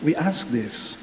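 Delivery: solemn, measured prayer voice; liturgical prayer. Acted. Prayer for the sick.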